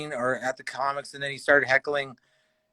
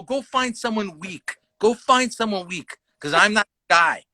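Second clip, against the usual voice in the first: retold mad warning; 6 semitones higher than usual. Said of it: "when I get mad".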